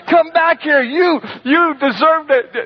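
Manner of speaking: put-on high, loud shout after running kids; calling after them. Tim calling after the fleeing kids, loud high shout. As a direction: yell after them as they run.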